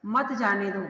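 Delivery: "मत जाने दो" set apart after a pause; "मत जाने दो" as its own closing command; separate phrase after comma. Shown as a demonstration. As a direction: start afresh on "मत", keeping it with "जाने दो". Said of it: "कॉमा लगा हुआ है".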